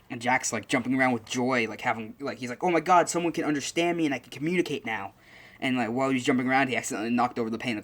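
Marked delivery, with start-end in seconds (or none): 2.6-5.1 finally heard after years of silence; overjoyed Jack. Retold or imitated. Jack rejoices that Izuku can hear him, higher and overjoyed. Jack jumping around with joy.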